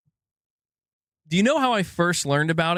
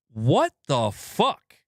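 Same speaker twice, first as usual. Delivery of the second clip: shocked what the fuck; much slower than usual. Retold or imitated. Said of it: "That was my reaction".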